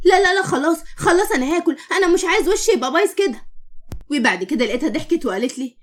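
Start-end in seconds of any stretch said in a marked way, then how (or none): 0.1-3.4 put-on a frightened little boy, pitched higher, pleading fast; scared child. Little boy scared by his mother's threat, frightened pleading. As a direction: beg like a scared kid promising to eat. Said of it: "الطفل خاف جدًا".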